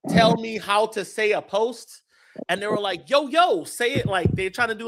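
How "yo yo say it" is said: lightly imitated hip-hop slang delivery, pitched up; a higher, mocking touch of hip-hop. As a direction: put on a little hip-hop voice. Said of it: "like, a little, a hip-hop voice".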